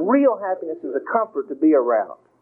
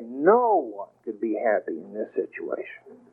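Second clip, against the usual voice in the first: gloomy complaint; 7 semitones lower, 5 dB quieter than usual. Retold or imitated. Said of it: "Things that we say".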